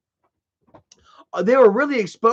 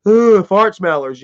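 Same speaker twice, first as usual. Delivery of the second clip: mocking troll voice; 4 dB louder than usual. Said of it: "you see a whole lot of".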